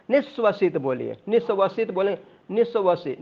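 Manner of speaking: निःश्वसित said as one joined word; निःश्वसित in one breath; pronunciation demo. Shown as a demonstration. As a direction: run निःश्वसित together, no break after निस्व. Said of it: "बोलना साथ में है".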